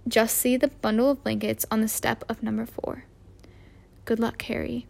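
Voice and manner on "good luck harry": soft, quiet farewell; murmured. Acted. Dumbledore bidding baby Harry good luck, murmuring softly. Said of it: "he m-, murmured".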